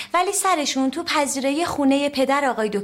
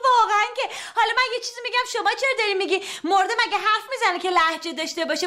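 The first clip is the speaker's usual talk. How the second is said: laughing scorn; 6 semitones higher, faster than usual. Acted. Mocking the doctor, still laughing.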